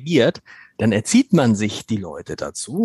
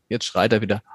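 resigned dismissal; 4 semitones lower than usual. Retold or imitated. Voices used-to-it listeners.

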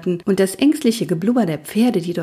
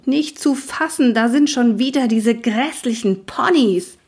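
high, indignant outburst; grumpy horse yelling from the smoke; bellowing horse; 5 semitones higher than usual. Acted. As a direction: snarl at the nasty ponies. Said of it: "ein brüllender Semmel".

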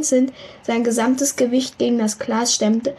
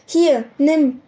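calling out; 4 semitones higher, 3 dB louder than usual. A narrator's reading. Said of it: "rief er Holly zu".

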